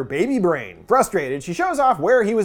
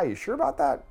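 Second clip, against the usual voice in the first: sceptical mumble, voice dropped low; low sarcastic doubt; 6 semitones lower, 8 dB quieter than usual. Pretend. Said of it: "And I'm like".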